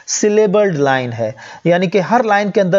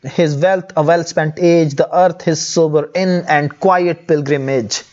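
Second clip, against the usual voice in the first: slow poem reading; much slower than usual. Shown as a demonstration. Teacher quoting the poem's most striking lines, slow recital. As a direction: read the striking lines slowly and deliberately. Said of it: "most striking lines की तरफ अगर हम आएँ".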